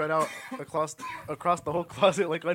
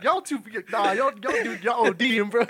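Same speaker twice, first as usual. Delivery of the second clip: retold anger; 4 semitones higher, 5 dB louder than usual. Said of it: "He's so mad".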